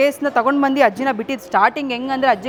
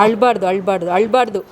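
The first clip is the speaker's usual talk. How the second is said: lower-pitched, repeated hushing reassurance; soothing; 4 semitones lower than usual. Real, not acted. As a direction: gently talk someone out of crying. Soothing a crying grandmother.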